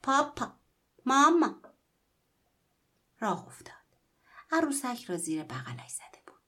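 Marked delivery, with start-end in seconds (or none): 0.0-1.6 high, loud doll chirp; the squeezed doll squeaks its two words; talking doll voice. Acted. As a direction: squeak it out like a toy. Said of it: "و عروسک گفت".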